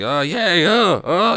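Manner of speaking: high, loud delighted squeals; giddy high-pitched cheering; excited squeal. Retold or imitated. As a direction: squeal with glee like an excited kid. Mildred gets excited, cheering.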